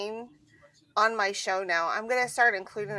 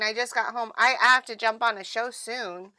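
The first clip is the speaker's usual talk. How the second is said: out of breath. Real, not acted. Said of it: "what was that for? ... I'm out of breath".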